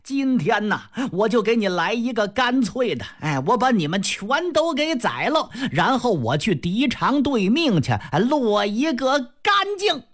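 put-on drunken threat. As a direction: slur the threat at her. Drunk Jia Lian threatens with sword.

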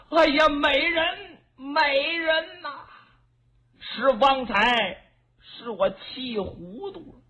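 lightly voiced lord, slow and soothing; the tyrant begs his beauty to stop crying, coaxing; coaxing old tyrant.

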